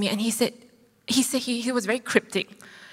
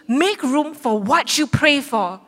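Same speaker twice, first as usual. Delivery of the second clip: slow solemn quote; 3 semitones higher, 3 dB louder, slower than usual. Retold or imitated. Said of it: "the Holy Spirit spoke to me".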